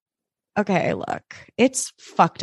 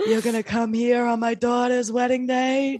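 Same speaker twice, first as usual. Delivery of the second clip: put-on cartoon mob-boss mouse voice; mouse from Zootopia; 3 semitones higher than usual. Mouse confronting a guest on wedding day, character voice. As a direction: imitate the offended little godfather mouse. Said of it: "The mouse from Zootopia".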